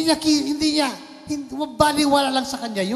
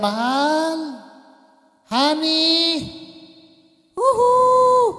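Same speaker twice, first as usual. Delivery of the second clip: hammed-up flirty wife calling out; playful Eve; 6 semitones higher, much slower than usual. Preacher playing Eve calling to Adam, high and flirty.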